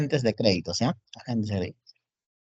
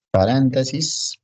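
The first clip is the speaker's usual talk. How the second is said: slow, louder-edged writing-along voice; slow dictation; 4 dB louder, much slower than usual. Real, not acted. Teacher writing on the board for students, slow dictation. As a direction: stretch the word as you write.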